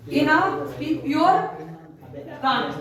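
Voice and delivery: very slow, word-by-word read-out; slow dictation. Real, not acted. Teacher dictates a genetics question to students, slow dictation. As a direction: dictate it slowly, stretching each word.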